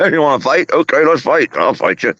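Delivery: high-pitched, playful mock fighting talk; eager challenger. Owner voicing his pet spoiling for a fight, playfully eager. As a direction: squeal the challenge, mock-pugnacious. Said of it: "See what he comes to me like".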